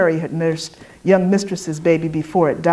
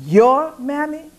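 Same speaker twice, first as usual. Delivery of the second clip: slow, much higher burst of outrage; exploding disbelief; 9 semitones higher, slower than usual. A narrator's reading. Dessa to the white woman, outraged disbelief. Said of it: "The words exploded inside Dessa".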